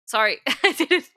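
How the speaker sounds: laughing through an apology. Real, not acted. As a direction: giggle out the sorry.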